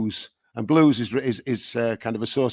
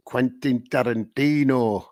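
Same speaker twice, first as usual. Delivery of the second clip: lightly broadened Barnsley accent; slower than usual. Shown as a demonstration. Songwriter quoting an overheard phrase, Barnsley accent. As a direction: say it with a Barnsley twang. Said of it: "in a Barnsley accent".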